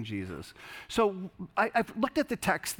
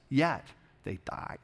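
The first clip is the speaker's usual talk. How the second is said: hushed; slower than usual. Acted. Hushed line in scripture reading.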